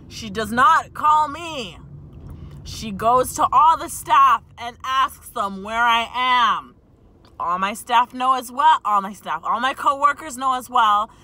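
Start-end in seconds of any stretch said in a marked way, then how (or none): 0.1-6.8 indignant. Real, not acted. Indignant retelling to viewers.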